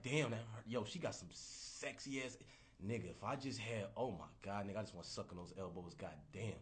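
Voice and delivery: mock lustful murmur. A guy lusting after elbows murmurs low and hungry. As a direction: croon low over elbows.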